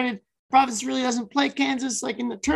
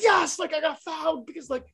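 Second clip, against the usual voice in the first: imitating fired-up player; 4 semitones higher, 4 dB quieter than usual. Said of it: "all fired up".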